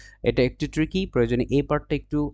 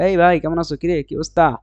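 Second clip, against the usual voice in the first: higher, louder hail to a pal; lively, raised-voice hello; casual greeting; 4 semitones higher, 4 dB louder than usual. Shown as a demonstration. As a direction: call it out like greeting a buddy. Voicing a casual Bengali greeting.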